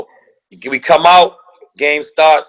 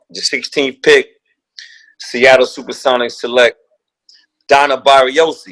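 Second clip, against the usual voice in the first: draft announcer; 3 semitones lower than usual. Retold or imitated. David Stern reading the sixteenth pick, measured announcer delivery. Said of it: "David Stern gets up and he's like".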